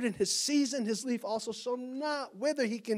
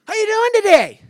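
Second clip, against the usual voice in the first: high, loud mock barista greeting; chirpy barista; 13 semitones higher, 14 dB louder than usual. Dutch Bros barista greeting the preacher, high chirpy mock voice. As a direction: greet like an overeager drive-thru barista. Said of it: "I go through the Dutch Bros".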